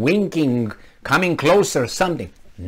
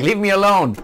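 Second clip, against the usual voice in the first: higher-pitched put-on "go away" protest; annoyed mock protest; 5 semitones higher than usual. Napping intruder answers the knocking, mock annoyed protest. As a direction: protest from behind the door, pitch raised.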